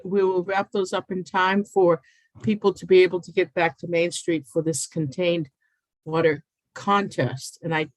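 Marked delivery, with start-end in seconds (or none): 6.1-7.6 slow, set CONTEST apart after "water"; stress on CONTEST. Real, not acted. Official presenting a contained water contest, stressing CONTEST. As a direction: lean deliberately on the word CONTEST. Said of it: "stress the word contest".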